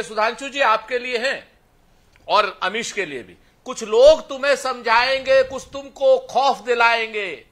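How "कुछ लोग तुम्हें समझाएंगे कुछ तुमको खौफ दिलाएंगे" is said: slow, measured declaimed verse; stately verse, addressed as a warning; poem recitation. Acted. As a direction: recite it with drawn-out line endings.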